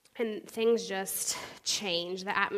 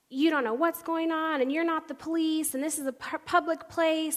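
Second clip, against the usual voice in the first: high-pitched telling-off, imitated; mock indignant confrontation; indignant mom; 7 semitones higher, 3 dB louder than usual. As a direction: scold like an affronted mother. Angry mom confronts her.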